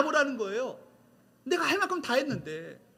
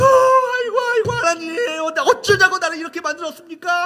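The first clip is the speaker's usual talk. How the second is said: loud, high-pitched mock wail to God; acted wailing lament; 8 semitones higher, 9 dB louder than usual. Elijah pouring out despair to God, acted loud wailing. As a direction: wail and plead as Elijah, hammed-up. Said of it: "막 통곡하고 애걸복곡하며".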